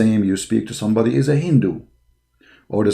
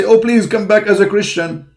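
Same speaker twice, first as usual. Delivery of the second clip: mocking pleading voice; 10 semitones higher, 4 dB louder than usual. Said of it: "they say".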